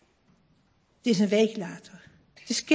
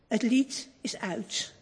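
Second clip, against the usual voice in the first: ordinary delivery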